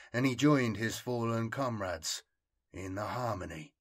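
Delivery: grave narration fading to a hush; story narration. A narrator's reading. Ends the story aloud.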